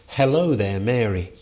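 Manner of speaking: breezy, casual "Hello there, Mary"; casual greeting. Retold or imitated. Lecturer voicing Luther's homely greeting, lightly casual. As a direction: say it like an everyday hello. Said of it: "translated the salutation like this".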